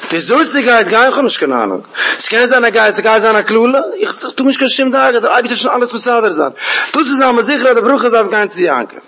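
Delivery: high-pitched, emphatic retold conviction; insistent certainty. Voicing Rivka's certainty about blessing.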